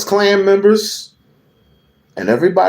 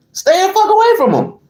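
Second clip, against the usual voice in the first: angry yell; 4 dB louder, faster than usual. Real, not acted. Angry rant defending Muslims.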